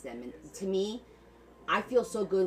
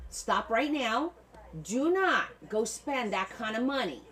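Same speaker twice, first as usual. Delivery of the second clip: firm warning; 4 semitones higher, slower than usual. Real, not acted. Warning buyers about overspending.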